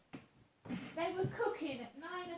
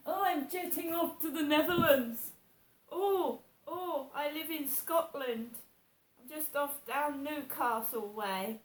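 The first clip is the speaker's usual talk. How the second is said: mocking the texts; 2 semitones higher, 5 dB louder than usual. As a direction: parrot the texts in a sing-song sneer.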